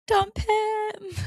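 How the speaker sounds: high, flat blunt verdict; curt comment-section verdict; mock advice. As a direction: spit out the obvious answer. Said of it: "all of these are just like".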